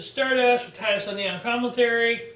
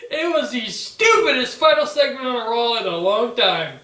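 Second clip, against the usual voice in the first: laughing; 3 semitones higher, 6 dB louder than usual. Real, not acted. Laughing at the segment.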